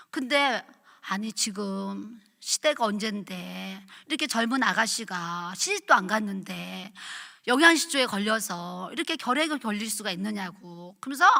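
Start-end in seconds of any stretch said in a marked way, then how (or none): 1.1-11.0 retold doctor's pity, slow and soft. Doctor to a malnourished young TB patient, pitying. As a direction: softly lament over the patient, drawing it out. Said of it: "너무 불쌍하게 얘기를 하는 거예요".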